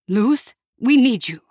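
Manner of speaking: a hint of a worried aunt pleading for a callback; aunt leaving worried message. A narrator's reading.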